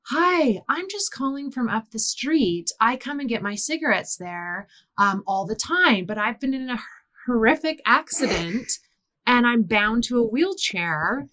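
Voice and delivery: mock British caller with a lilt; put-on British accent. Eleven-year-old phoning the store for cigarettes, put-on British accent. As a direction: plead politely in a child's fake British accent. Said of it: "I put on a British accent".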